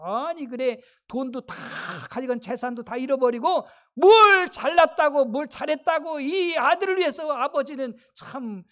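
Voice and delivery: retold indignant complaint, bursting out then subsiding; elder brother grumbling. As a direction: grumble like a resentful brother, mildly acted. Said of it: "막 그러면서 막 불평불평하는 거예요".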